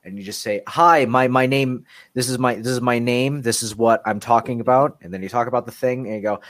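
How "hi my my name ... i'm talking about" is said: YouTuber intro voice. Retold or imitated. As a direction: ham it up like a cheesy vlogger. Mocking generic YouTuber intro.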